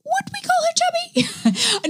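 high, slow, sly Hugh Grant voice; slow, high aside muttered sideways. Retold or imitated. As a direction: drop it out of the side of the mouth. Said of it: "Hugh Grant is like".

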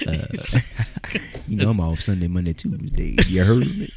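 imitating Gamma. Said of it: "It does sound like him a little bit".

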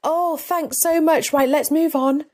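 high, embarrassed thanks, acting out your own discomfort; mortified deflection. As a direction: brush off the praise in a high-pitched retold fluster. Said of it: "was mortified on the inside".

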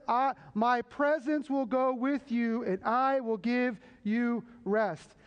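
slow quote. Acted. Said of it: "God said".

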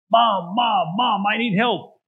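urgent calls of Mom at the door; a son pleading through the door for help; desperate knocking plea; calling out. Acted.

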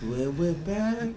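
slow, drawn-out DJ imitation; mock the sultry radio host. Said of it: "You sound like that".

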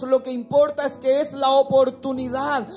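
rising into loud preaching. Acted. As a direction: build up the sermon's climax. Preaching builds to full force.

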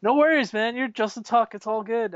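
high, bright mock fanboy gush; retold starstruck reply. Reassuring Justin Tuck about his son, high fanboy gush. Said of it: "And I'm like".

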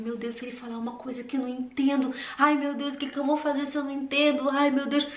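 hurried, acted-out panic; fretting in a rushed inner monologue; panicky fear. Learner dreading the dentist's reply, mock panicked rush. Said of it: "É o medo".

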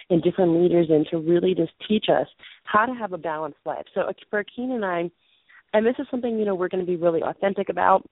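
hoarse, fading voice with little carry; losing her voice, pushing to be heard; muffled voice. Real, not acted. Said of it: "Akina just let me know my voice is muffled".

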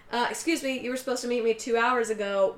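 mildly indignant retold complaint; pissed. Stood-up woman confronts him, mildly pissed. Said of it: "But she's pissed".

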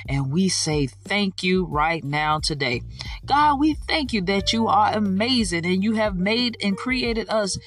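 praying aloud with rising fervour; fervent prayer. Acted. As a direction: lead the listeners in heartfelt prayer. Opening prayer on podcast.

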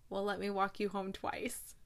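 hushed, half-whispered sweet line; soft romantic delivery. Retold or imitated. He offers to walk her home, softly romantic. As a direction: drop to a near whisper for the romantic payoff.

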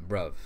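"bruv" on its own, closing on a V sound; demonstrating bruv. Shown as a demonstration. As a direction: say "bruv" as a model, V at the end. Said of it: "B R U V".

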